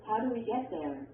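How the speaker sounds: WH question falling on "there"; falling intonation. Shown as a demonstration. Textbook example of a WH question, falling intonation. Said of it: "arrows that show falling intonation".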